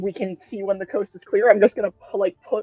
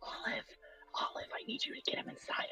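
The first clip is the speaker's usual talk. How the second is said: in-character whisper, higher and quieter; 23 dB quieter than usual. Casting a message spell to another character: whispering a message in character. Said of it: "So I'm just gonna whisper".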